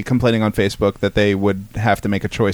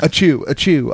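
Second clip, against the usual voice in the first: hammed-up fake sneezing; badly faked sneeze, twice; 3 semitones higher than usual. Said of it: "I'm sick".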